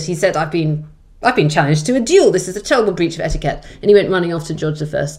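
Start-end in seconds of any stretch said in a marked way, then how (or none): 0.4-3.6 lightly voiced indignant duke; a touch of outraged courtier; affronted duke. Duke complaining he was challenged, mock affronted. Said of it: "the Duke of Newcastle was affronted".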